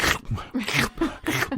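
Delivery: noisy mimicked munching bursts; imitated cereal eating. Teller mimicking how he ate cereal, imitated munching. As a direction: act out someone eating cereal, sound only. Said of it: "he ate cereal. It was like".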